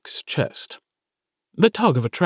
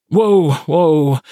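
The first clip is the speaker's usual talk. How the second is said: startled whoa; 4 semitones higher, 5 dB louder than usual. Acted. Startled by the dryer siren.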